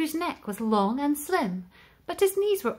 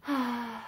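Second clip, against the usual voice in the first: quiet wistful sigh; soft sigh; 6 dB quieter than usual. Acted. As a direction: let out a gentle sigh. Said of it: "with a sigh".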